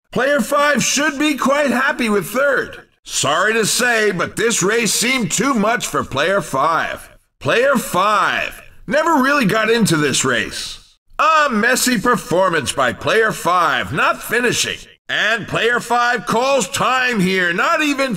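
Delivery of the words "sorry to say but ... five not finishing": disappointed announcer. Acted. Announcer reports a poor result.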